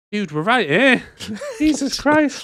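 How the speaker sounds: high, slow laughing protest; slow exasperated gangster; mock exasperated gangster. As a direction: laugh out the complaint. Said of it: "And they're like".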